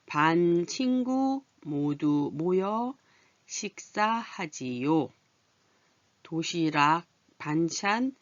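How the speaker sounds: slow, drawn-out class reading; slow reading aloud. Shown as a demonstration. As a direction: read the whole text slowly for learners. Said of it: "그냥 한번 슬쩍 봐두고 갑니다". (천천히 읽어 주는 선생님 목소리)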